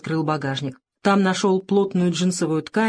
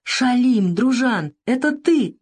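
higher, delighted recognition; overjoyed; 7 semitones higher, 3 dB louder, slower than usual. A narrator's reading. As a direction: burst with joy at the old friend. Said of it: "обрадовался Савелий".

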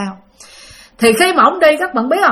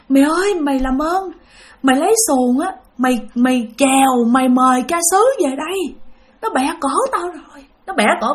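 weak voice; 3 semitones higher than usual. Retold or imitated. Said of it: "với một cái giọng rất là yếu ớt".

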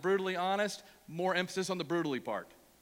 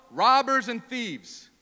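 very slow, louder rebuke; ticked off Jesus; 3 semitones higher, 6 dB louder, much slower than usual. Retold or imitated. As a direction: spell out each word in mock anger. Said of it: "he is ticked off".

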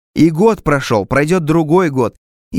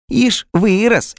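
higher, slow sneering jab; mocking; 8 semitones higher, much slower than usual. A narrator's reading. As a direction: tease the doctor, drawn out. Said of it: "баба издевательски хихикнула". (насмешливо, издевательски протяжно)

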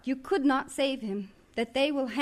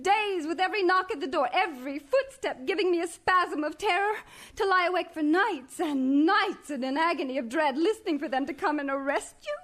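desperate; 4 semitones higher than usual. Acted. Wife pleading desperately.

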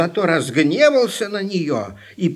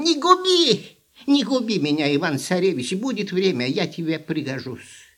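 squeaky hare voice. Acted. Hare pleads for its life.

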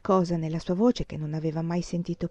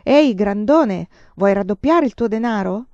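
grinning barker's call; 3 semitones higher, 7 dB louder than usual. A narrator's reading. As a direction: lure the big lad in, grinning. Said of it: "gli gridò sorridendo".

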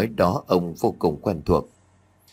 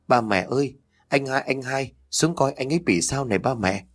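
panicked cry; 5 semitones higher than usual. A narrator's reading. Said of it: "tiếng hét thất thanh".

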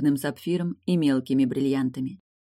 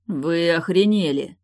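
grumbled; 2 semitones higher, 5 dB louder, slower than usual. A narrator's reading. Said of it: "пробурчал Дамьен".

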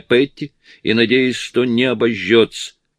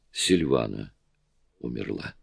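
crying softly; 9 semitones lower, 9 dB quieter than usual. A narrator's reading. Anne tells the women Silvana died, softly tearful. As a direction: softly read tearful words, a touch of weeping. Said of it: "плача сказала Анне".

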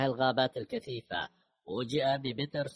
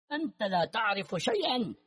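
anguished cry; 8 semitones higher than usual. A narrator's reading. Grieving father cries out at his son's killer, anguished. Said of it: "صرخ سولومون بصوت ينم عن الألم العميق".

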